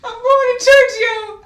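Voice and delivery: very high, loud, slow wail; hysterical, drawn-out fan squeal; overwhelmed wailing. Real, not acted. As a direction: wail it out as if close to tears. Overwhelmed reaction to the story.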